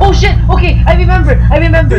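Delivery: sudden high excited yell; excited shout. Real, not acted. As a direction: blurt it out, suddenly remembering. Sudden realization in game.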